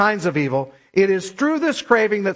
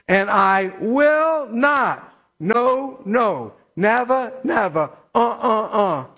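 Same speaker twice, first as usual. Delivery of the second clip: slow "will not", then beat out each refusal; deliberate, rhythmic denial down to "uh, uh, uh"; emphatic negation; slower than usual. Shown as a demonstration. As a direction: stretch "will not" and space every "never". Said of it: "this is called emphatic negation".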